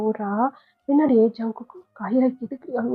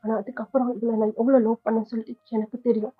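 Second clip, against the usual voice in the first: tearful. Acted. Hurt husband speaks of love.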